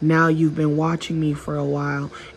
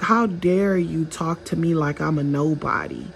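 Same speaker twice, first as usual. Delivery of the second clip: offended narcissist; 4 semitones higher than usual. Retold or imitated. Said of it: "they're looking at you like".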